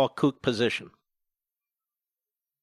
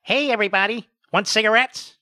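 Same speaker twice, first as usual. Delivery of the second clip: corner hustler; 6 semitones higher than usual. Retold or imitated. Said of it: "looks like the guy who stands on the corner".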